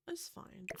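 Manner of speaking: "It's fine" whispered under the breath, resigned. Real, not acted. Builder settling for badly placed windows, resigned whisper.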